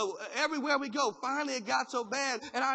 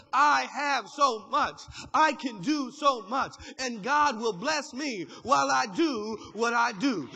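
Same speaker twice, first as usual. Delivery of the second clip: bold declaration; 2 semitones higher, 6 dB louder, slower than usual. Acted. Proclaiming faith mentality.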